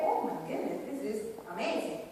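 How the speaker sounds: breathy whispered delight at the taste; hushed amazement. Retold or imitated. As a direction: whisper it like a kid amazed by flavour. Child voiced tasting blueberries.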